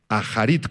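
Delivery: "Aharit" with an aspirated H, stressed on the I; stress on final I. Shown as a demonstration. Pastor spells out the Hebrew, "Aharit" stressed on the I. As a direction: sound the H in "Aharit" and accent its last syllable. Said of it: "con H y acento en la I".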